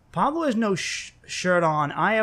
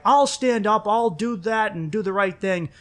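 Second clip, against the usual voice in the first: higher, bold declaration; mock bravado; 6 semitones higher than usual. Roommate imitating viewers who think they'd intervene, mock bravado. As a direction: mimic someone boldly vowing to step in. Mimicking people boasting about stepping in.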